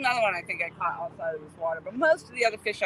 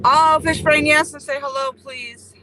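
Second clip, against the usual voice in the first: excited greeting; 6 semitones higher, 10 dB louder, slower than usual. Real, not acted.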